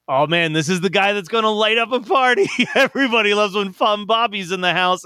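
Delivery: imitating an eager party crowd, lifted a little; hyped-up quote of an admiring friend; excited partygoer. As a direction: talk up the party legend with mild excitement. Hyping Fun Bobby as party guy.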